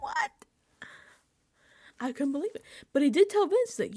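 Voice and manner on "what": slow, high breathy disbelief; stunned high whisper. Retold or imitated. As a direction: gasp the word out, stunned. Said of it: "My jaw dropped".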